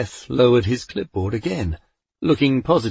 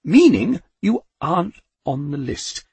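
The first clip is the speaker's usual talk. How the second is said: meek; 7 semitones higher, 4 dB louder than usual. A narrator's reading. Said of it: "Death repeated more meekly".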